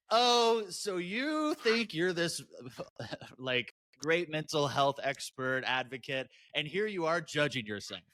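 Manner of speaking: high, drawn-out sarcastic challenge; mock self-scolding. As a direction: needle yourself with slow mock amazement. Acts out judging herself.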